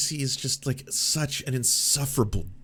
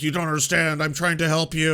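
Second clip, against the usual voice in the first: mock Tracey whine; 5 semitones higher, 4 dB louder than usual. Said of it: "And he's like".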